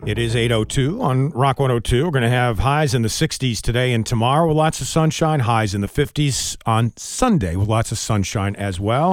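even, polished announcer delivery; radio weather read. Acted. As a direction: read it like a morning radio forecast. Reads weather and sponsor.

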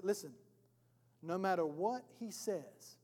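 hushed advocate's instruction; confidential counsel. Acted. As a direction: advise quietly, as if beside someone in court. Advocate coaching the accused aside.

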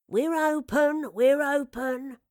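kindly shopkeeper calling out, loud and drawn out; kindly reassurance. A narrator's reading. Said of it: "a kindly voice reassured her".

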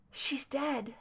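a faint, rasping whisper of shock; faint and raspy. Acted. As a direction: barely get the words out, raspy. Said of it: "her voice faint and raspy".

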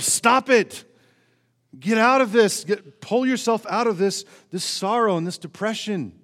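self-scolding yell. Retold or imitated. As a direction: snap at yourself to pull out of it. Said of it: "You can't just yell to yourself".

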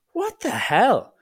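slow, high-pitched disbelief; retold bewilderment. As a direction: draw it out high, re-enacting utter bafflement. Retold reaction to the arrest.

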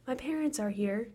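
put-on flat, eerie child monotone. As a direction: drone it with no tune. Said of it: "in monotone voices".

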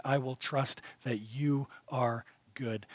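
slow whisper, barely breathed; whispered trust. Pretend. Believer whispering trust to God, slow and soft. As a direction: breathe it as a private vow.

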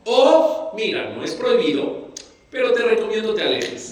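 mild mock-casual advice; casual, light advice. Shown as a demonstration. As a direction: toss it off as a friendly tip. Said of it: "la única diferencia sería como la entonación".

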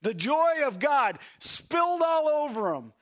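preaching at full force, loud and high; fervent shouted preaching; rising shout. Real, not acted. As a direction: belt it out to the congregation. Preacher builds to shouted climax.

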